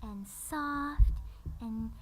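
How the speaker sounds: slow, soft, nervous voice; timid and fading away to near nothing; Fluttershy. Acted. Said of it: "She's slower and soft and, and nervous".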